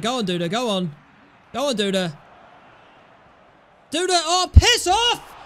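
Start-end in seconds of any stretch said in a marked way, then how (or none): 3.9-5.4 angry outburst. Real, not acted. Chance lost, angry outburst.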